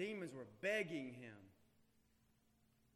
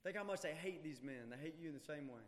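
much softer and lower, pressing it home; hushed warning; 6 semitones lower, 7 dB quieter, faster than usual. Real, not acted. Preacher quietly urges his church not to sleep, hushed plea. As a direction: lean in and plead quietly.

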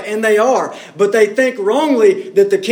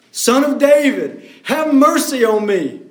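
crying out; 4 semitones higher than usual. Retold or imitated. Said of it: "he cried out all the more".

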